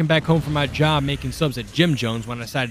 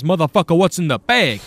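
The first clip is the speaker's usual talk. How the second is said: repeated louder and higher for someone wearing earbuds; 4 semitones higher, 5 dB louder than usual. Retold or imitated. Mugger repeats the demand to the earbud wearer, louder. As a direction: say it again so he hears it this time. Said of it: "you'll have to repeat that".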